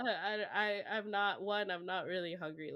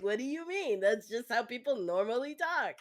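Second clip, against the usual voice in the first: higher, louder mock-bewildered retort; baffled protest; 5 semitones higher, 4 dB louder than usual. Telling friends the rude tone is normal, baffled protest. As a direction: act out an incredulous, half-amused objection.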